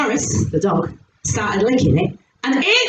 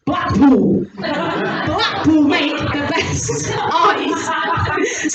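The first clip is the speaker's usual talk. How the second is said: husband voice; 3 semitones higher, much slower than usual. Retold or imitated. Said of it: "He goes".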